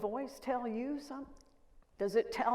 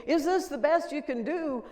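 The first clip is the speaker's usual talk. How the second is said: father's challenge; 7 semitones higher, 7 dB louder than usual. Retold or imitated. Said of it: "my father told me".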